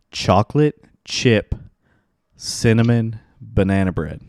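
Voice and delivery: slowly, word by word. Shown as a demonstration. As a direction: spell it out slowly for the listeners. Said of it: "I'm gonna say it slow".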